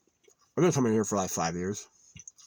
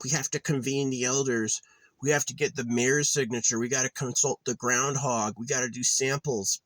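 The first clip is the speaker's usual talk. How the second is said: higher, pompous mock bureaucrat voice; lampoon fussy town officials; 5 semitones higher than usual. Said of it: "You shouldn't be like".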